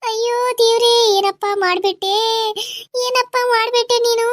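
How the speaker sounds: sing-song wail to god; keen the words like a dirge; lamenting. Acted. Mother cries out to god in grief, wailing.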